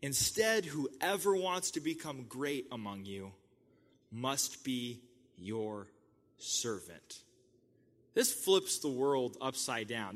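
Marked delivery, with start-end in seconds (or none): 0.0-7.2 emphatic yell. Retold or imitated. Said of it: "He's probably yelling".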